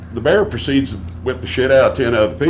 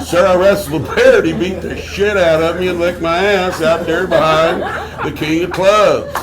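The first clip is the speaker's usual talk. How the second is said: raised, insistent mock outburst; retold emphatic confession; 3 semitones higher than usual. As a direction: blurt out the whole ordeal. Retold exclaimed answer to doctor.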